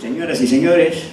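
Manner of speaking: mock stand-up routine; stand-up bit. Shown as a demonstration. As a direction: play a flustered comedian to a crowd. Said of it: "podríamos hacer un stand-up".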